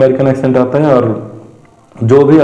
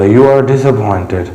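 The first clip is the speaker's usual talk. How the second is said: lightly wheezy, slow quote; a hint of breathlessness, drawn out slowly; wheezy Oswald; much slower than usual. Teacher acting Oswald speaking over his shoulder, slightly wheezy. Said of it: "तो Oswald ने ऐसे बोला".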